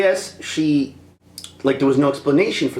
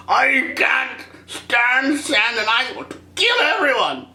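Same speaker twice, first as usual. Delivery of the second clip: higher, very slow brooding parody; mock Anakin; 10 semitones higher, slower than usual. Vlogger parodies Anakin confessing to Padmé. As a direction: drag it out, moody teen.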